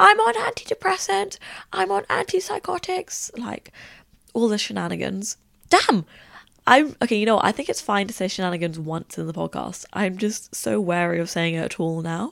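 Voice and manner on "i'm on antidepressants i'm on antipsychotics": acted-out yelling in a very high voice. Retelling yelling into someone's ear at a club event, retelling own yelling. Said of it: "I'm yelling like".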